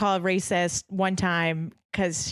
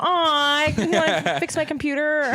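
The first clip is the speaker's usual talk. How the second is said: put-on light Indian accent, laughing; a hint of Indian accent; 6 semitones higher, slower than usual. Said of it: "friend zone accent".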